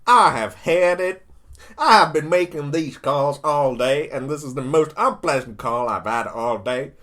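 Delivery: acted exasperated politician rant; fed-up Trump. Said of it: "Mister Trump saying".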